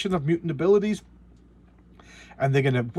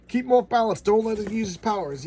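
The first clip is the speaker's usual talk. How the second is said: higher, louder team commands; lightly hammed-up field orders; mock barked orders; 7 semitones higher, 4 dB louder than usual. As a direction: call out tactics mid-fight. Acting out comic team orders.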